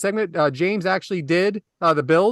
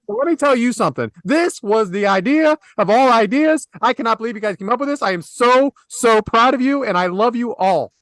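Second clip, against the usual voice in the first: acting out gushing praise, emphatic and slightly raised; effusive praise; 3 semitones higher, 4 dB louder than usual. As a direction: lay on the pride with punchy emphasis. Acting out James's gushing text message.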